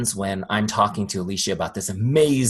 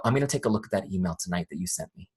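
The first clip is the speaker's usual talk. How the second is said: casual client brush-off; 3 semitones lower, 5 dB quieter, faster than usual. Retold or imitated. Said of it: "this is the part that drives me nuts, is they'll go".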